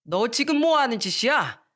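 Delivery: rising angry scold from the father; father losing his temper. Acted. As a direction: snap at the son over the broken cup. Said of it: "역정을 내던". (역정 내는 아버지)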